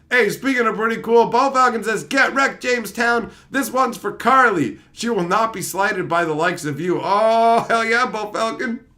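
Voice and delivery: loud, high hype-man read; energetic sponsor-style shoutout. Acted. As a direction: pump up the shoutout.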